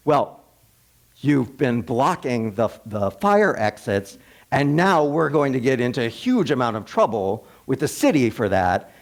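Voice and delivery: lightly voiced irritated executive, slowing on the fire exits; a touch of indignation rising at the end; mild mock rant. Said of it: "And he starts ranting".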